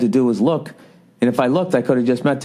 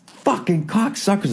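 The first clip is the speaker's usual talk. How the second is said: slow, high-pitched mock outburst; losing it; 9 semitones higher, slower than usual. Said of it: "I lose my mind".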